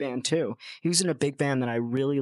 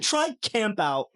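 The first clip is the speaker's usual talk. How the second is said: quoting the artist; 8 semitones higher, slower than usual. Retold or imitated. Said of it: "So he said".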